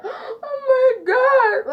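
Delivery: high, drawn-out tearful wail; hammed-up sobbing cry; mock crying. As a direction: wail it like a mortified small child. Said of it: "I was crying".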